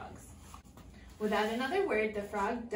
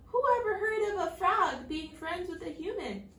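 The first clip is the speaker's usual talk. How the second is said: higher, loud mocking scorn; scornful princess; 7 semitones higher, 5 dB louder than usual. A narrator's reading. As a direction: sneer at the idea. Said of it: "called back over her shoulder".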